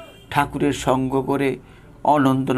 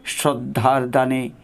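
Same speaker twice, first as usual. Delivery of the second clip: devotional recitation. Acted. Reading Thakur's call to the disciples aloud, devotional recitation. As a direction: read it like a sacred letter, full of longing.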